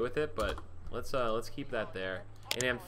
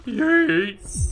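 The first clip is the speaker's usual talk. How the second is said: yelled yeet; 7 semitones higher, 10 dB louder than usual. Acted. Throwing drugs with a shout.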